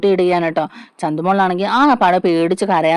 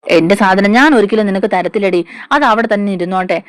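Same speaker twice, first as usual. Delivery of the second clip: angry retort; 4 dB louder than usual. Retold or imitated. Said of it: "അനാമികയ്ക്ക് അങ്ങോട്ടേക്ക് ദേഷ്യം വരികയാണ്".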